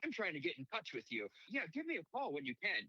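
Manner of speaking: high-pitched, dorky message voice; mock a dumb, awkward phone message; dorky voicemail. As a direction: pitch it up like a hapless dork. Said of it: "Just super dumb and dorky".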